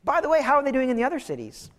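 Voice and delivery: brushing it off. Retold or imitated. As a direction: wave it away and move on fast. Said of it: "he seems to just kind of brush it off".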